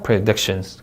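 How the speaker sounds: "Predictions" with stress on DIC; careful word stress. Shown as a demonstration. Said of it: "다시 읽어볼까요". ("Predictions"의 DIC에 강세)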